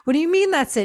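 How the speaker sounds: retold bewildered question, pitched high; puzzled comeback, voice lifted high; baffled. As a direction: ask it in mock disbelief. Acted baffled reply, repeated.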